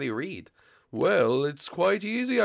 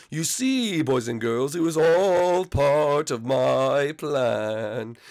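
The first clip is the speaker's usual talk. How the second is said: scheming reveal; much slower than usual. Acted. Blimpy revealing his plan.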